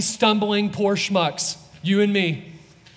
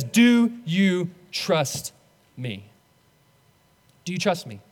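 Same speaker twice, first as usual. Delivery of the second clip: gentle Jesus. Acted. Preacher voices Jesus asking gently.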